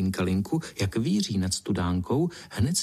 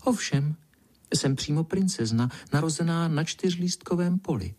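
high, preening little voice telling a proud lie; the flattered ladybird lying to the spider, high and pleased; flattered fib; 6 semitones higher than usual. Acted. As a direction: puff up and boast, voiced high. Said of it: "polichoceně zalhala pinkalinka".

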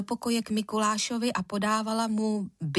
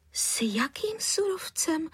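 higher, hushed puzzled question; puzzled surprise; 8 semitones higher, slower than usual. Acted. Mother baffled by caller's accusation, surprised. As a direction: ask in genuine bewilderment. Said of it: "podivila se".

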